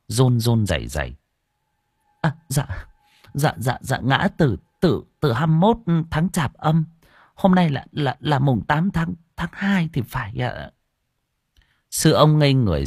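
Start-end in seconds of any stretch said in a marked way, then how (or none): 2.2-10.7 put-on higher, halting frightened old woman; stammering fright. Old woman stammers dates to the monk, higher frightened voice. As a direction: stumble over every word in fear.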